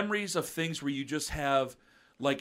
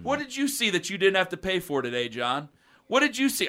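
higher, teasing singsong taunt; mocking taunt; 4 semitones higher than usual. Teen clerk mocking a drunk customer. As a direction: needle him like a smart-mouthed kid.

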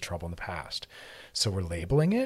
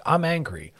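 raised, clipped mock anger; mock angry; 7 semitones higher, 6 dB louder, slower than usual. Shown as a demonstration. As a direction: toss off the angry label. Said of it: "versus saying".

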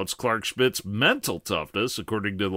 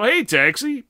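higher, louder cab call; hailing a taxi; 12 semitones higher, 5 dB louder than usual. Acted. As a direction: flag the cab again.

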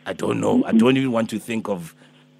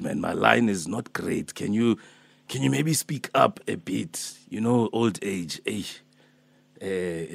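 put-on Alpheus, old man. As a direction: play a gentle old healer calling early, only a hint of age. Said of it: "I'm Alpheus, I'm Alpheus".

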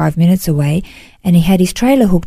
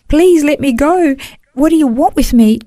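retold tearful plea; 7 semitones higher than usual. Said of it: "I started crying more".

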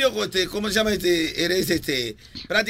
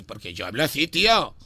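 put-on Spain accent; 7 semitones lower than usual. Prankster defending his speech to bank caller, Spain accent. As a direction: drop low into a mock Spaniard. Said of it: "¿Por qué habla así?".

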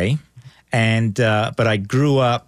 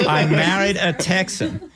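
slow, laughing line; 4 semitones higher, slower than usual. Real, not acted. Guest laughing off the Communist Texan jab, slowly. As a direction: laugh it out, drawn out.

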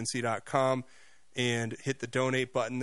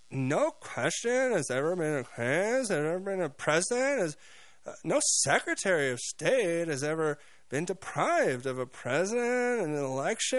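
mock airhead upspeak; 4 semitones higher than usual. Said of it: "this upward inflection at the end".

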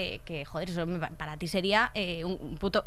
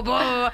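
mock deep boom. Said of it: "vocecilla de pitufo y luego".

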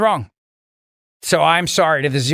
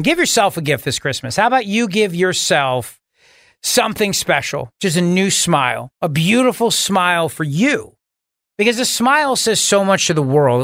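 upbeat sales pitch to the listeners; host reading a sponsor spot, warm and persuasive; live radio ad read. Acted. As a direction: sell the dentist like a friend you trust.

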